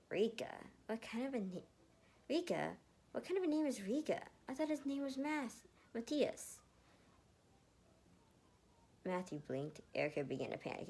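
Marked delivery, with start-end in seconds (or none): 0.1-6.6 put-on high, puzzled boyish voice; baffled by the odd name; puzzled teen. Matthew confused about the nickname, high and puzzled.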